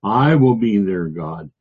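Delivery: I punched at the front, the rest easing off; emphatic I. Shown as a demonstration. Teacher voicing Jehovah's emphatic promise, stress on I. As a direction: declare it with weight on I. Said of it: "Jehovah emphatically spoke it".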